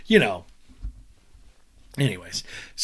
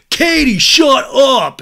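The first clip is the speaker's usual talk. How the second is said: higher, loud mocking yell of Katie's name; 10 semitones higher, 10 dB louder, much slower than usual. Schwartz telling Katie off at a party, hammed-up yell. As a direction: bark it at her like a brat.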